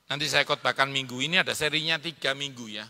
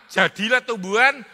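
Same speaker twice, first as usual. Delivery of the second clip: proclaiming; 7 semitones higher, 11 dB louder than usual. Real, not acted. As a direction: declare God's word with force. Preaching God's command.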